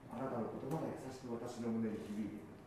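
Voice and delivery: soft and gentle reading; tender. Shown as a demonstration. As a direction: let the words wrap around gently. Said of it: "そんなイメージで". (包み込むように優しく)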